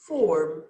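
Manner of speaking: "Form" said three times low and deliberate; teacher dictating a listening item; dictation word. Shown as a demonstration. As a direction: read the test word slowly. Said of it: "Can you hear it?".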